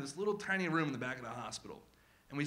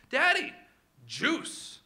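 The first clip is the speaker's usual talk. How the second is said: high squeaky "Daddy", then a small lilting "juice"; more insistent little-kid plea; toddler voice; 11 semitones higher, 6 dB louder, much slower than usual. Retold or imitated. Two-year-old asking dad again for juice, squeakier.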